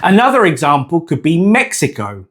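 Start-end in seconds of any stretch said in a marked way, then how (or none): 1.4-2.3 "Mexico" as MEK-si-koh, with English gliding O; English pronunciation. Shown as a demonstration. Teacher giving the English version as example, anglicised "Mexico". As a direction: say "Mexico" with KS and a final OH. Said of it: "with the O sound in English".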